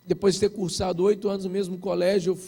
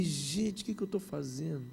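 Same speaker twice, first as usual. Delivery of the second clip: low, soft muttering to himself; imitated inner voice, low and deflated; retold dismayed thought; 6 semitones lower, 11 dB quieter than usual. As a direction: quietly question your own sanity.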